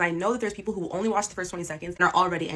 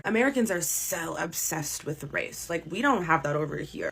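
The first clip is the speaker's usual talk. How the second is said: mocking smug European; 3 semitones lower, 4 dB quieter, slower than usual. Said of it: "they'll say stuff like this".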